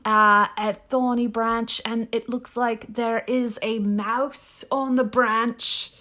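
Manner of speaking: measured put-on British narrator; British accent. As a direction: attempt a British old man's accent, narrating. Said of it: "I'm not gonna do this accent anymore".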